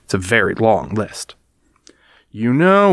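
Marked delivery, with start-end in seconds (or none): 2.3-2.9 warning. Acted. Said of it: "warned Brother".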